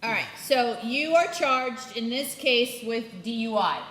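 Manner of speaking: slow, careful, clearly spelled out; over enunciating. Real, not acted. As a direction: speak slowly for a non-native listener. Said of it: "let me try".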